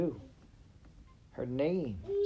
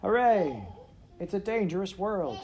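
higher, louder joyful cheer; excited shout; 9 semitones higher, 4 dB louder than usual. A narrator's reading. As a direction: cheer it out with delight. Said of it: "she shouted".

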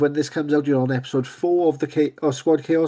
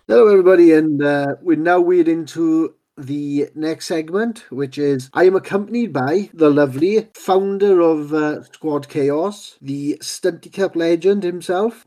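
radio host intro; 3 semitones higher than usual. Acted. Host introduces guest segment.

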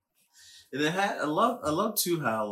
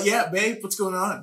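laughing Kite Man impression; 10 semitones higher, 6 dB louder than usual.

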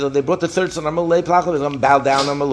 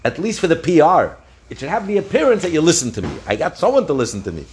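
higher-pitched, acted coaxing; pleading; 4 semitones higher than usual. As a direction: plead like an embarrassed ruler saving face. Embarrassed Caesar pleading with boy.

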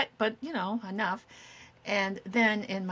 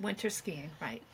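whispered; 3 semitones lower, 10 dB quieter than usual. Real, not acted. Echoing friend's correction.

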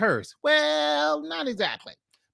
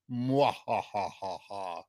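evil laugh; 9 semitones lower, 6 dB quieter than usual. Shown as a demonstration. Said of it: "I tried to do a evil laugh".

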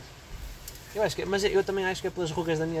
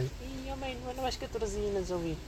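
put-on whiny teen girl; 8 semitones higher, 10 dB quieter than usual.

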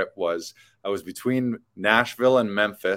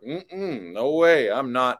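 higher, emphatic no-way voice; Southern cashier lady; 5 semitones higher, 4 dB louder, slower than usual. Retold or imitated. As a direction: mimic the cashier refusing firmly. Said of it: "the lady's like".

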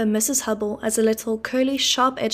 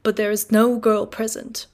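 louder, clipped correction; irritated declaiming; 4 dB louder than usual. Acted. Wopsle correcting Mr Hubble at dinner, irritated. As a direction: put him right with a sniff.

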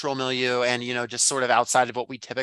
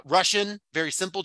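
usual speaking voice

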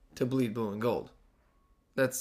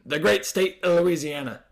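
imitating a put-on Louisiana accent; mock Southern accent; 4 semitones higher than usual. Host mocking the coach down in Louisiana, fake Southern accent. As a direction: tip briefly into a mock Southern twang.

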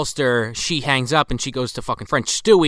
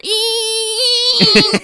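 mosquito whine; 5 dB louder than usual. Retold or imitated. Mimics approaching mosquito, spectrogram steady whine.

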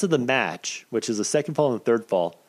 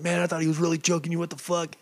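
higher, quick imitation of worried guys; alarmed onlookers; 7 semitones higher than usual. Guys who thought he was really choked, mock alarm. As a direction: mimic startled disbelief, pitched up.

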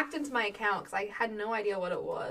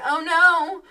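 loud, higher cry of alarm; mock panic; 6 semitones higher, 12 dB louder than usual. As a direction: yelp as it jumps on you. Retold panic being attacked.

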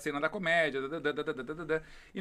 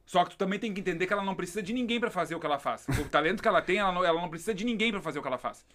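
fast, heated comeback, louder at the end; fast, rising defense of a friend; heated retort; 3 semitones higher, 4 dB louder, faster than usual. Retold or imitated. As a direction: defend her, faster and rising. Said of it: "minha resposta pra pessoa foi assim".

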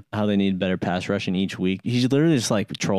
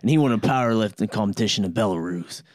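put-on Cockney accent; 2 semitones higher than usual. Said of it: "get back more into my Cockney".

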